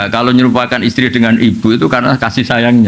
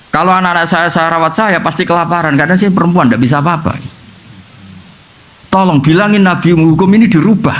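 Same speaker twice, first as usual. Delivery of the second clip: acted plea, pitched up; ranting prayer; 4 semitones higher than usual. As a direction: beg on the children's behalf, voice raised in pitch. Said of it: "pas munajat tuh ya ngawur betul".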